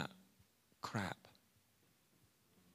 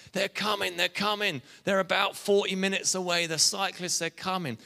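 higher, heralding call; excited caravan announcer; 6 semitones higher, 4 dB louder than usual. Retold or imitated. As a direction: announce the riders are on their way. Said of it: "they're throwing out freebies, like".

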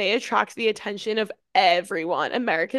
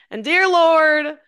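mock grace; 3 semitones higher, 3 dB louder than usual. Friends retelling their bit at the table, mock grace. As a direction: open grace solemnly, drawing out the first words. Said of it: "that we were saying grace".

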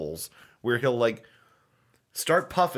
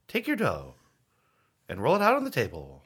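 imitating Chef John cadence; faster than usual. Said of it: "he speaks with a certain cadence".

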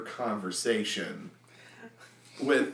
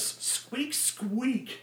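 high little squeaks; hamster squeaks; 12 semitones higher, 4 dB quieter than usual. Acted. Boo the hamster threatening the deacon, high squeaks.

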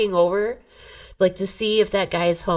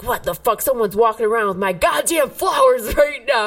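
retold outburst. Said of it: "I'm like".

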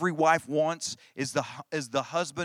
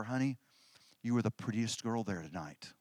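low, soft and tender; gently imitated sweet talk to a wife; doting husband; 7 semitones lower, 9 dB quieter than usual. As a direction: murmur a loving compliment, imitating a husband. Doting old husband compliments his wife.

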